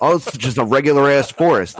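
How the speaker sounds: laughing relief. Retold or imitated. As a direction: chuckle out the letdown in delight. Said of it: "And I'm like".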